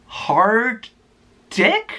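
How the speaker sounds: high, drawn-out puzzled question; baffled soccer mom. Retold or imitated. Soccer mom reading his name tag, high puzzled question. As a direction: stretch it out, high and confused.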